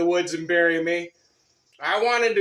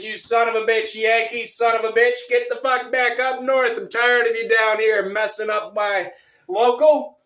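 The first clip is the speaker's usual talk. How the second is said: mock shouting match; 5 semitones higher, 4 dB louder than usual. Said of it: "we get into a shouting match".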